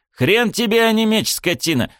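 scolding a disobedient sword, furious; barking angrily. A narrator's reading. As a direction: snap at the sword through tears. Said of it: "рявкнул я сквозь слёзы".

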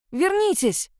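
high, frantic cry to come back; desperate yell. A narrator's reading. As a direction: scream it after her, voice cracking high. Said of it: "закричала я не своим голосом".

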